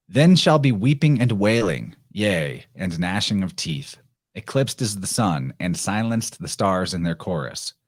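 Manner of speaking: measured, solemn recitation of verse; dramatic reading of a prophetic poem. Acted. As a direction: read it like an ancient prophecy. Reads the Sibyl's poem aloud.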